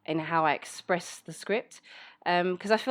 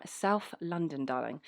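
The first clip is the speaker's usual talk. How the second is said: slow, savoured South London accent; 3 dB quieter, slower than usual. Shown as a demonstration. Telling listeners where they're from, slow South London accent. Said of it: "yeah, that's just my accent".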